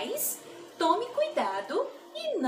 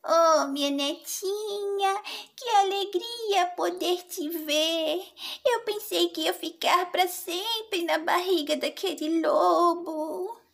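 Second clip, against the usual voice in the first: put-on joyful old grandma; happy grandma voice; 5 semitones higher than usual. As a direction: sound relieved and grateful.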